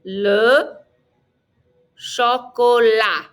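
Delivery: LE, long pause, CHOCOLAT ending on AH; slow CHOCOLAT with no T at the end; spaced-out LE CHOCOLAT for repeating; silent final T. Shown as a demonstration. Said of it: "Don't pronounce the T".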